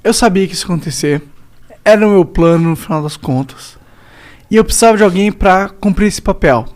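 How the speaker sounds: low, quiet voice of God. Retold or imitated. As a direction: speak as a calm, knowing God. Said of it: "se Deus tava assim, tipo".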